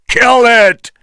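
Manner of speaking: high, hard order; fierce shout. A narrator's reading. Engelhorn ordering his men, fierce shout. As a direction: command the kill. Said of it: "shouted Engelhorn".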